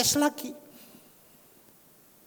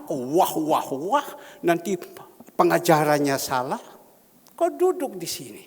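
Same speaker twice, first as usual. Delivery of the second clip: stern order; 2 semitones higher, 7 dB louder than usual. Retold or imitated. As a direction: order him to sit, loud and firm. Preacher orders the young suitor. (perintah tegas dan keras)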